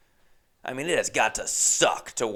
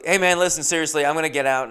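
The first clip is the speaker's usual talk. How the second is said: firm callout; 4 semitones higher, 5 dB louder, faster than usual. Retold or imitated. Finally insisting to Uber driver.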